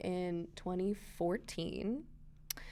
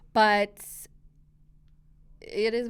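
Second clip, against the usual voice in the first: whisper; 9 dB louder, slower than usual. Real, not acted. Whispered aside.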